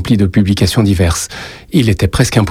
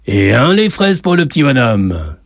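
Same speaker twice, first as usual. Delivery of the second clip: raised-pitch announcement, no real shout; calling out; 5 semitones higher than usual. A narrator's reading. Café owner calls the boy's order out, raised voice. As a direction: call the order out cheerily. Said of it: "dit-il à haute voix".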